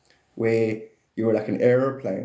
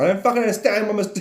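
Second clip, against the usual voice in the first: mock confused universe; 10 semitones higher, 4 dB louder, faster than usual. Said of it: "it's like".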